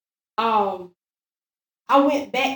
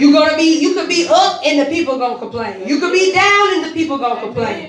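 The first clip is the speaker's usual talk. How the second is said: emphatic preaching; 3 semitones higher, 5 dB louder, faster than usual. Real, not acted. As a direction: press each point home to the congregation. Preaches at full force.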